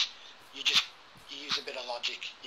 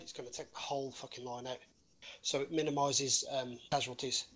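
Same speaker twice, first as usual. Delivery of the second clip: out of breath. Real, not acted. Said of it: "I'm out of breath".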